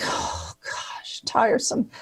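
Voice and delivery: mock whisper. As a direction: breathe it out in a tired whisper. Pretend weary reply, then denies it.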